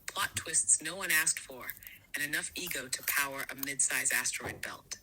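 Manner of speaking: breathy hushed whisper, voiceless. Acted. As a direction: lean in and whisper it like a secret. Whispered satirical aside.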